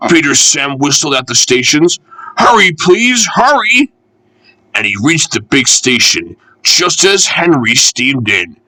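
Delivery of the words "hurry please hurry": much higher, urgent plea; a little engine begging for speed; urgent pleading. Acted. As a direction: hurry them along, pleading. Engine urges the train on.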